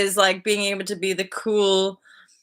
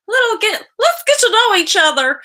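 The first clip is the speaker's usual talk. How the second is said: playful cooing; 12 semitones higher, 5 dB louder than usual. Pretend. Playful aside amid a sidetrack.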